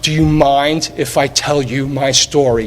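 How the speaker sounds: slowed right down, each word savoured; "Do you mind if I tell you my story?" said slowly, with feeling; slow, moved retelling. Retold or imitated. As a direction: relive the moment, slow and touched. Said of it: "I still get goosebumps".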